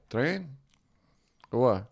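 put-on puzzled Mexican-accented cab driver. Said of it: "the quintessential Mexican accent".

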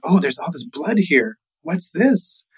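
startled, mildly alarmed question; afraid. Acted. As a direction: voice rising in puzzled alarm. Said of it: "he gets afraid".

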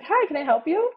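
high, bright sing-song uptalk; sweet upward customer service lilt. Shown as a demonstration. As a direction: chirp it like a shop clerk greeting. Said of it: "I call it the customer service voice".

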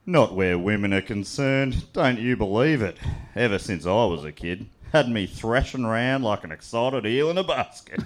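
slow, lightly broad Aussie bloke voice; Australian accent. Acted. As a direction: read it like a cheeky 1950s larrikin. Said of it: "a dialect".

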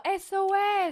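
mycket högt och ljust skrikigt; hånfullt rop. Pretend. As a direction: ropa larmande som åskådarna. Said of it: "alla står där och bara". (högt skrikande åskådare)

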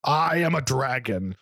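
high, slow scornful dragon. Acted. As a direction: sneer at the mortal warrior. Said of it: "the beast roared in pain".

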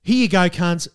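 brash, sweary brush-off; defiant don't-care. Acted. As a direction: throw it down like a careless dare. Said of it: "the vibe of this one is gonna be".

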